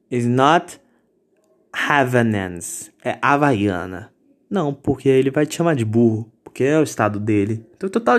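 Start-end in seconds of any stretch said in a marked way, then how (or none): 0.1-4.1 mock gringo. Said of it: "Você não vai chegar num gringo falar".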